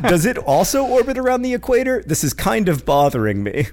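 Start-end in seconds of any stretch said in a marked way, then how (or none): 0.0-2.0 reading through laughter, pitched up; laughing read. Real, not acted. Laughing while reading a listener's moon question aloud.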